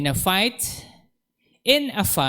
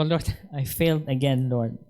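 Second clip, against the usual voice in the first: laughing confession. Retold or imitated. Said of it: "Sabi ko".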